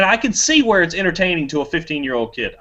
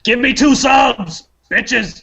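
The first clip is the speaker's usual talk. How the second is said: hype plea; 6 semitones higher, 3 dB louder, much slower than usual. Acted. Jokey outro plea.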